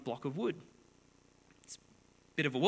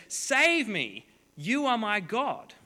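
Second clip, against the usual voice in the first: higher, louder plea to an idol; pleading worshipper; 7 semitones higher, 6 dB louder, slower than usual. Acted. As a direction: cry out to the carved god for rescue. Idol maker praying to his idol.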